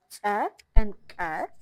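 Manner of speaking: "Tse" and "Ke" slow and loud, each a dry pop; sharp ejective pop. Shown as a demonstration. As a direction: force the air out sharply on "Tse" and "Ke". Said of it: "sharp pop".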